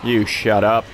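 strained, breath held in; holding breath. Real, not acted. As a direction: talk while holding your breath. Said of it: "I'm holding my breath".

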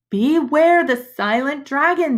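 a hint of a giant's yell, read to the class; giants yelling. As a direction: call it out like big stomping giants. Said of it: "they yell".

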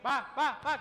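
loud urging calls; barking gym coach. Real, not acted. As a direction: push them on loudly.

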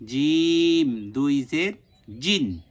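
long, firm জিম, then hard-j জিন; stretched জিম landing firmly on জিন; hard consonant. Shown as a demonstration. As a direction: spell জিম দুই জের জিন slowly with a strong j. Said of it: "শক্ত হবে".

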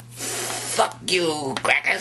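high mock-defiant signoff; signoff yell. Real, not acted. Comic signing off to the crowd, high mock-defiant yell. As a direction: fling the catchphrase at the crowd.

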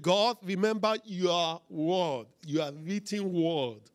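slow, drawn-out appeal; measured, deliberate plea in a retold prayer; crying out to God. Daniel reminding God of his word, retold slow crying out. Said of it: "He cried out unto God".

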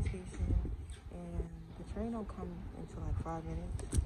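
muffled behind cloth mask; through a face mask. Real, not acted. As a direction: mouth covered by fabric. Seen 4: White cloth mask covers mouth and nose throughout; R-frame masks are pulled down.

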